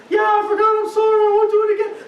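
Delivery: put-on high, loud, rushed child's apology; anxious little kid. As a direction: blurt it out like a panicked kindergartner. Kindergartner frantically apologizing for homework.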